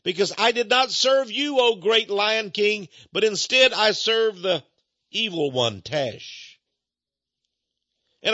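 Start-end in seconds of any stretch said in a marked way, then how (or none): 0.0-6.6 higher, louder, slow mock plea for mercy; pleading in fear. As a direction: beg the Lion King like a doomed man. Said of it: "And he says".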